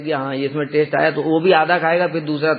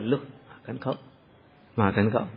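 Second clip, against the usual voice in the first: coaxing offer; 5 semitones lower, 9 dB quieter than usual. Acted. Krishna coaxing monkeys with butter.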